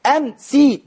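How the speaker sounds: "أمسي" pronounced am-si; final kasra sounded. Shown as a demonstration. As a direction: end "أمسي" on a clear "i" after the sin. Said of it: "على الكسر برضو من النطق أهو".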